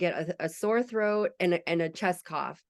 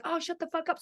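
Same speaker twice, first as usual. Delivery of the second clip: high, quieter scornful brush-off; mimicked dismissive man; 7 semitones higher, 5 dB quieter than usual. Boyfriend silencing the mom, high scornful brush-off. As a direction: wave her off with contempt. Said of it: "the boyfriend would be like".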